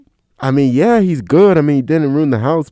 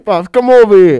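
put-on much higher and louder, bossy little kid; 9 semitones higher, 9 dB louder than usual. Father repeating his son's command in a squeaky voice. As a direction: echo the kid's squeaky command. Cohost repeats kid's line.

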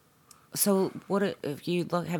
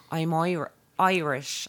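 Irish accent; 2 semitones higher, slower than usual. Shown as a demonstration. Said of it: "I can say Irish in an Irish accent".

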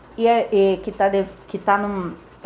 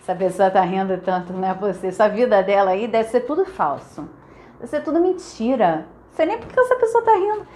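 envious gossip. Retold or imitated. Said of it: "tem outra".

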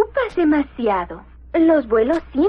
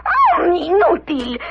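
scornful outburst; angry; slower than usual. Acted. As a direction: spit out the insult. Medusa insulting Snoops.

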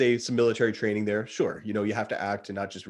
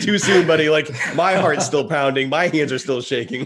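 too soon; 5 semitones higher, 8 dB louder than usual. Retold or imitated. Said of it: "showboat this yet".

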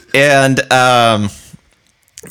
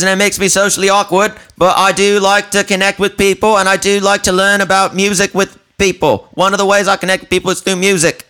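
much higher, earnest awkward stranger; high, polite awkward stranger impression; high mimic voice; 11 semitones higher than usual. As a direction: pipe it up like a socially awkward fan. Mimicking the odd guy's speech.

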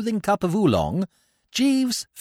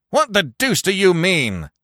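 mock shout; 3 semitones higher, 4 dB louder than usual. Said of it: "shouted old Blumenfield".

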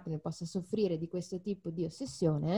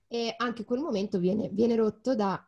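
real strained, breaking voice; voice cracking; 2 semitones higher, 4 dB louder than usual. Real, not acted. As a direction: voice giving out mid-sentence. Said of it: "la mia voce oggi non ce la fa". (voce che si incrina)

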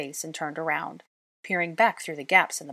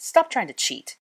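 scoffing; 3 semitones higher, 4 dB louder than usual. A narrator's reading. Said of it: "he scoffed".

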